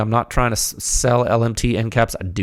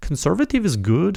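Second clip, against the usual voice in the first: bad, butchered attempted Midwest accent, pitched up; 7 semitones higher than usual. Recalling a college professor's saying, attempting her Midwest accent. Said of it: "she had a weird like Midwest accent".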